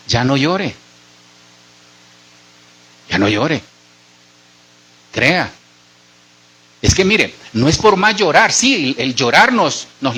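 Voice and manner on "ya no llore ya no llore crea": lower, softened reassurance; gentle consoling. Real, not acted. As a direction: gently tell them to stop crying. Preacher consoles people who are crying. (consuelo suave, en tono bajo)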